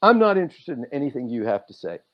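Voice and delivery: loud, fast, rising anger; angry rant. Retold or imitated. Telling off the boss during the review, loud fast rant. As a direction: let the anger build as you tell him off. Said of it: "I start getting angrier and angrier".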